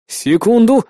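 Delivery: urgent hold-on. Acted. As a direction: beg a moment while busy. Hero buys time mid-action.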